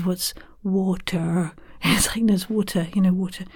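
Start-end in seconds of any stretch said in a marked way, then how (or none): 0.0-1.5 slow, puzzled American server; American accent. Retold or imitated. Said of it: "a Subway in America". 2.3-3.4 British "water" offered as explanation; own British accent. Retold or imitated. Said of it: "asking for some water".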